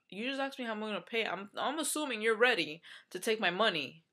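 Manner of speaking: retelling how she snapped at the receptionist; indignant retort. Retold or imitated. To the receptionist who asked for payment, irked and incredulous. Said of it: "that kind of pissed me off".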